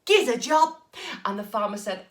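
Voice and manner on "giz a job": eager loud ask. Acted. Jack asks farmer loudly.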